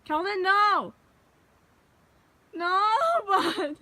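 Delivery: high laughing no; laughing protest. Real, not acted. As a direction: laugh and plead. Dog runs off.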